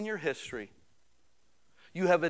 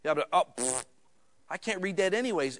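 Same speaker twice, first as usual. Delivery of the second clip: lightly mocking, scoffing pfft at the list; dismissive bored reader; 2 semitones higher than usual. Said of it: "'cause they're like".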